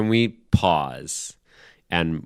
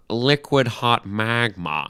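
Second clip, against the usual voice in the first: Doctor Evil impression; slower than usual. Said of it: "I can't even do it anymore".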